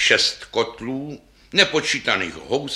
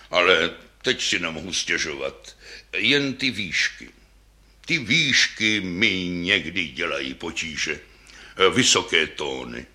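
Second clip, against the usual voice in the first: put-on old double bass; 4 semitones lower than usual. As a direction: speak like a venerable old instrument. First bass tells its story.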